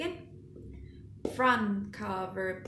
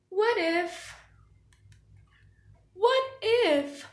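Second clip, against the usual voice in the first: rising, louder worry building up high; worried; 8 semitones higher, 4 dB louder than usual. Acted. Gerald fearing Piggy makes him sneeze, growing panic. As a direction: fret more with every what if.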